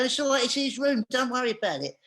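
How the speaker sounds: calling reassurance through a door, half-strength; retold yelled reassurance, not full volume; retold shouting. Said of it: "And I'm shouting".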